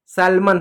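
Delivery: सैल्मन said like sammon, with a silent l; सैल्मन said the right way; correct pronunciation. Shown as a demonstration. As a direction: give the right form सैल्मन. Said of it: "एल silent होता है".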